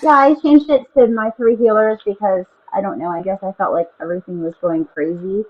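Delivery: muffled, like underwater in a cave; muffled mic. Real, not acted. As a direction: voice through earbuds, dull and boxed. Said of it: "a mix between underwater and in a cave".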